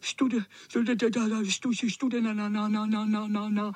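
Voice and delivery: stuttering through chattering teeth. Acted. Soaked cat stuttering with cold, teeth chattering. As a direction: chatter your teeth on each syllable. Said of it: "Drkotal zuby".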